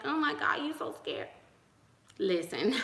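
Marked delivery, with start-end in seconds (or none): 0.1-1.3 higher, teasing mimicry of critics; mocking y'all. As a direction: poke fun at the doubters, voice up high. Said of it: "Y'all be like".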